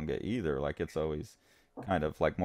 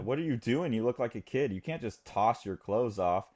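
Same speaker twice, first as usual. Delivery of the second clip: higher-pitched, mock exasperated boss; acted scolding; 4 semitones higher than usual. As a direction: imitate a boss telling off a performer. Boss scolding a performer in story.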